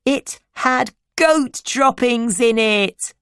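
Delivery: put-on high-pitched child voice; gleeful little sister. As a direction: reveal the prank in a high little-girl voice. Little sister gleefully reveals prank.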